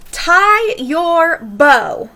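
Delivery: "bow" said "boh", like a ribbon; very slow, "bow" as in ribbon; teacher demo, "bow" rhyming with go; bow rhymes with go. Shown as a demonstration. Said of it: "demonstrating homograph sounds".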